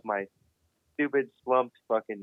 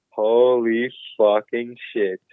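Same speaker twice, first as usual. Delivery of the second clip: stunned realization; 2 semitones lower, 5 dB louder, much slower than usual. Retold or imitated. Retells realizing how bad it is.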